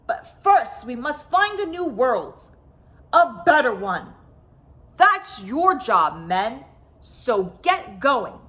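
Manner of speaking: lightly voiced commanding chief, urgent; rally the men to find a new world; world chief giving orders. World chief urging his men on, commanding.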